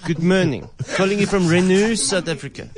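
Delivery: put-on French accent. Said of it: "such a French accent".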